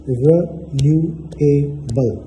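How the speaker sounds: रिन्यूएबल slowly, syllable by syllable; slow syllable-split रिन्यूएबल; clapped syllables. Shown as a demonstration. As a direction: clap out रिन्यूएबल ri-nyu-e-bal. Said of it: "चार दफ़ा आप clap करें".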